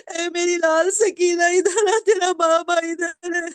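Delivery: father calling Sakina from the hollow; a father's tearful call. Acted. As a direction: call her over, choking up. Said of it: "ایک نشیب سے آواز آئی".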